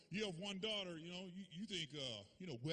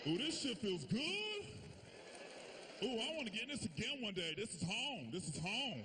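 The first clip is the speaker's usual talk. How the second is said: put-on blissful baby; 3 semitones higher than usual. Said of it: "we was like".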